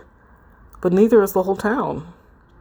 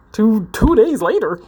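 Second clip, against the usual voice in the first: laughing; 3 semitones higher, 4 dB louder than usual. Real, not acted. Actor laughing at own line.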